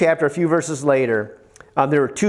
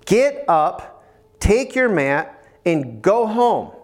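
measured orders, each phrase set apart; word of command; 3 semitones higher, slower than usual. Retold or imitated. Jesus to the paralytic, mildly commanding. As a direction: direct him with calm authority. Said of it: "commanded and he spoke a word".

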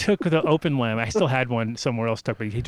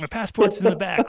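high, insistent re-enacted excuse; flustered explaining; 8 semitones higher, 4 dB louder than usual. Driver explaining himself to the officer, high and flustered. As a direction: plead your case in a raised pitch. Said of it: "I'm like".

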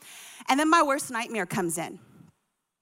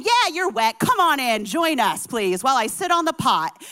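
mock summons; 6 dB louder than usual. Woman summoning hot tub guests.

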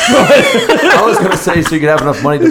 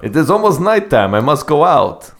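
monotone Russian vampire voice; deadpan Russian Dracula; 4 semitones higher than usual. Pretend. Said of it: "Now he's Dracula".

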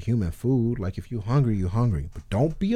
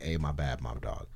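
muttered sorry; 9 semitones lower, 10 dB quieter than usual. Retold or imitated. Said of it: "who really were like".

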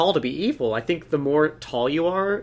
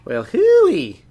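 cowboy voice; 11 semitones higher, 7 dB louder than usual. Acted. Joins the cowboy bit.

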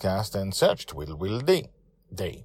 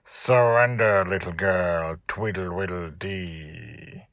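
spat through teeth; much slower than usual. Acted. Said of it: "he spat through his gritted teeth".

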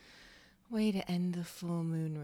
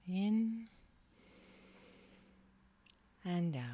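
guided meditation. Acted. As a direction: guide them gently into stillness. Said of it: "we're gonna do a little guided meditation".

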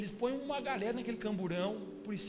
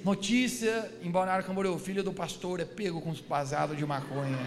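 mock news headline; 4 semitones lower, 3 dB louder than usual. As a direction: read out a scandal like a newscaster. Imagina a manchete do noticiário. (locutor de noticiário, de brincadeira)

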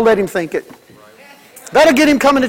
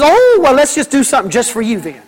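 mock indulgence. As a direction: sarcastically pretend to give in. Mocking church indulging whiner.

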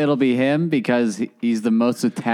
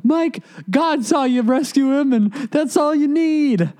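imitating consoling parents; 12 semitones higher than usual. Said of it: "his parents are trying to console him".

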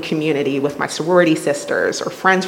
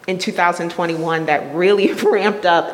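nervous laugh. Real, not acted. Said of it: "that's a nervous laugh".

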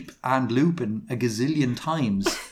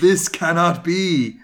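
slow, louder, crisp declaration; 4 semitones higher, 5 dB louder, slower than usual. A narrator's reading. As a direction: pronounce each word crisply and slowly. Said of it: "Snap said in a crisp voice".

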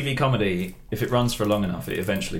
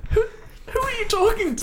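high, far-off ghostly call; spooky ghost voice. Acted. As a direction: moan it like a ghost upstairs. Ghost voice calls out.

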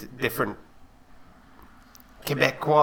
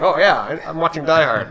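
higher, louder mock excitement; suddenly thrilled at a familiar movie; playful imitation of a happy surprise; delighted recognition; 6 semitones higher, 8 dB louder than usual. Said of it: "you're like".

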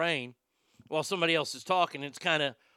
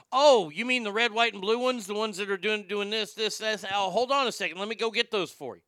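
higher-pitched, eager customer service; friendly helpful clerk; 6 semitones higher, 4 dB louder than usual. Retold or imitated. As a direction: act out an over-helpful shop clerk. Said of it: "he's friendly".

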